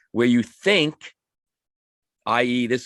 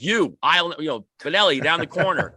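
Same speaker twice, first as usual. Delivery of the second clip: mock teacher yelling; 5 semitones higher than usual. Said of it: "they don't start screaming at you".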